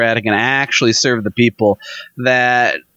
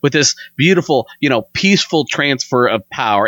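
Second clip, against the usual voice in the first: mocking smug praise. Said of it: "the arrogance of people".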